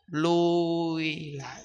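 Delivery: heavy, dragging retreat; slow drag back. Shown as a demonstration. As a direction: let the words sag backward, slowly. Demonstrating slipping back.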